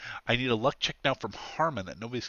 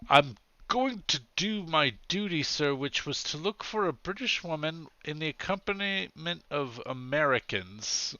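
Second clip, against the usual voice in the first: higher-pitched, formal officer voice; earnest policeman in a raised pitch; dutiful policeman; 5 semitones higher than usual. Acted. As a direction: state your duty officiously, pitched up.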